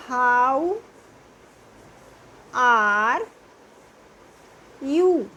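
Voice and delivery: How, are, you with long pauses between; word by word. Shown as a demonstration. Teacher models How are you word by word. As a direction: give each word its own beat. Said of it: "क्या आप बोलेंगे English में?".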